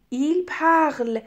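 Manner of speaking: "parle" drawn out slowly, said "parl"; very slow, careful "parle" ending on the l; silent plural ending. Shown as a demonstration. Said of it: "Attention،".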